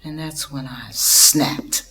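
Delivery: hushed, broken whispered confession; tragic heroine sorrow. Acted. Confession after snapping.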